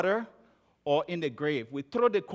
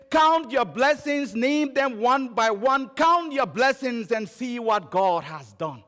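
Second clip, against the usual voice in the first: higher, slow, ringing recital of a hymn; proclaimed hymn verse; 4 semitones higher, 3 dB louder, slower than usual. Real, not acted. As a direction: declaim the hymn line by slow line.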